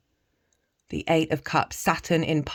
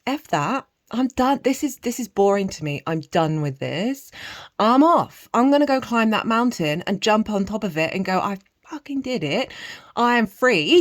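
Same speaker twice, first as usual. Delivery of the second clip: higher, louder triumphant declaration; triumphant voice of viewer; 4 semitones higher, 6 dB louder than usual. Pretend. Reader voicing a viewer who leaves old patterns, triumphant. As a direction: shout it like you just broke free. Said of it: "you, absolute boss, are going".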